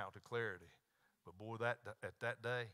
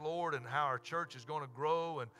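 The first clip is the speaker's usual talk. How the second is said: public prayer; 2 semitones higher, 5 dB louder than usual. Real, not acted. Leads closing prayer.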